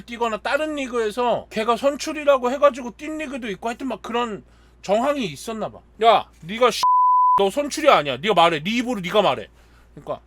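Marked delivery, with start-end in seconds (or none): 6.0-9.5 loud, insistent mock interrogation; forceful retold confrontation; retold pressing demand. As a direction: act out teammates leaning on him to confess. Teammates pressing the silent pitcher.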